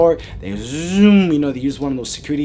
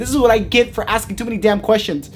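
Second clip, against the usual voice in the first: high, worked-up complaint; exasperated panic; 7 semitones higher, 3 dB louder than usual. Retold or imitated. Man learns the creature is near, high exasperated rant. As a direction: whine in dismay at your rotten luck.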